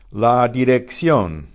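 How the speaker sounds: slow, careful Spanish dirección; Spanish pronunciation. Shown as a demonstration. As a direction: model la dirección with a tapped r, slowly. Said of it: "teacher models Spanish word".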